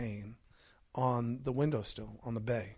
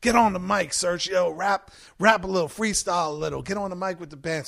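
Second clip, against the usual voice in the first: hyped, louder party push; egging on; 3 semitones higher, 4 dB louder than usual. Retold or imitated. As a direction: cheer him onto the mic. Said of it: "He's like".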